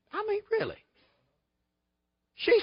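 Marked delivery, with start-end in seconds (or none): 0.1-0.8 exasperated. Real, not acted. Exasperated aside on the lawsuit.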